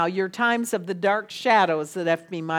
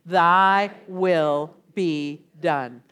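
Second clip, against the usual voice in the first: very slow, lower, solemn; slow solemn prayer; 3 semitones lower, 4 dB louder, much slower than usual. Shown as a demonstration. Leading the congregation in prayer, very slow and solemn. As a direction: draw out each word reverently. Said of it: "Will you say that with me?".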